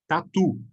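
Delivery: "Tatu" with a strong final TU; "Tatu" said ta-TU, short first syllable; stress on last syllable. Shown as a demonstration. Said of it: "com a tonicidade na última sílaba".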